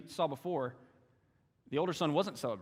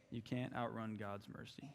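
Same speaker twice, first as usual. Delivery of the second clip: much softer, settling the point; softer echo; 3 semitones lower, 11 dB quieter than usual. Real, not acted. Preacher repeating to his church, softly. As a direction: drop it low and let it land. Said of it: "quiet repeat of line 16".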